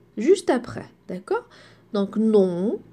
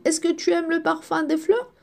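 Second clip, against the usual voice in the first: rising question to the class; asking the question; 4 semitones higher, faster than usual. Shown as a demonstration. Teacher asking pupils a question, rising. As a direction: ask it like a curious friend. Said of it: "Si je te pose la question".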